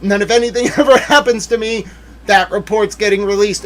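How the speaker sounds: high, loud acted threat with a laugh in it; hammed-up retelling of an ultimatum; imitated defiant warning. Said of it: "She was like".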